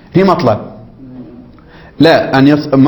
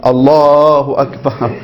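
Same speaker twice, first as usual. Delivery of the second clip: mock drawn-out takbir; much slower than usual. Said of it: "كل واحد يخترع".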